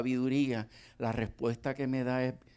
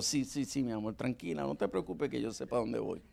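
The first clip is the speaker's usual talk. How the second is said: meek yes dear; 3 semitones lower, 7 dB quieter than usual. Retold or imitated. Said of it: "answering wife meekly".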